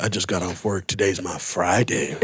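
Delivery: low, slowing, mock-drunk excuse; drunken self-justifying. Comic answering worried friend in story, low slow excuse. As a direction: drag it out, low and unbothered.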